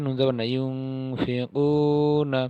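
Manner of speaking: ইউংফিকুনা read slowly with the nasal ং held; slow Arabic recitation. Shown as a demonstration. Teacher modelling nasalised reading for students. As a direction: draw out ইউংফিকুনা. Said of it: "এখানে ইকফা গুণ না".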